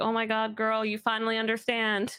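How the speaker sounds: usual speaking voice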